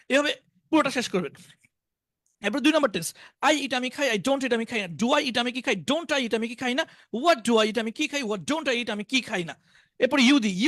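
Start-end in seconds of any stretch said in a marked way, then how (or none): 3.4-9.5 rhythmic drill, English phrase then Bengali meaning; model recitation. Shown as a demonstration. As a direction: recite the tense table in a steady patter. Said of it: "এইভাবে শোনাবেন".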